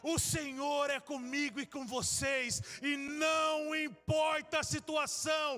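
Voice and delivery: loud, high fervent proclamation; shouted preaching. Real, not acted. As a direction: shout the blessing over them. Preaching at full force.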